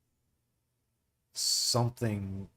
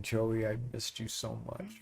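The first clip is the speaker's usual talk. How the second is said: tearful mother. Acted. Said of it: "you hear her saying".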